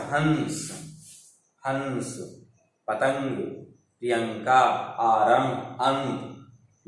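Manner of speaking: हंस, पतंग, अंत with the dot sounded through the nose; word by word, nasal n in हंस and प्रियंका; nasal anusvara. Shown as a demonstration. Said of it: "इसका उच्चारण नाक से होता है".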